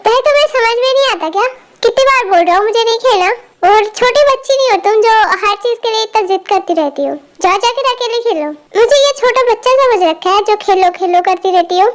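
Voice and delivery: exasperated, mildly angry telling-off; irritated scolding. Acted. Older brother refuses to play with child, irritated scolding. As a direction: scold with rising impatience. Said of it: "अब गुस्सा क्यों कर रहे हो".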